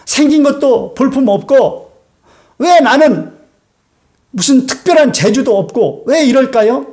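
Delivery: a mild whiny complaint to God; complaining believer. Retold or imitated. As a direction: lightly voice a discontented churchgoer. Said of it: "어떤 분이 그러게요".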